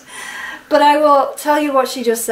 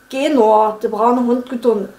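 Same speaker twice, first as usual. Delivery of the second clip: Saxon accent. Shown as a demonstration. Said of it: "Sächsisch".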